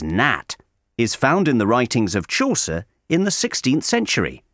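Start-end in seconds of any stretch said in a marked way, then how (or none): 0.0-0.6 "nat" with a flat American a. Shown as a demonstration. Teacher showing the old form of "not". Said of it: "the pronunciation of not as".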